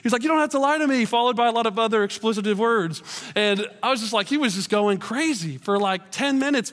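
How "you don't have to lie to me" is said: mock angry driver. Preacher imitating the yelling driver, mock angry. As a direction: toss off the driver's rant, half-hammed.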